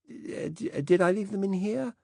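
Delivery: a fussy, absent-minded British gent apologizing; vague old Director General. Acted.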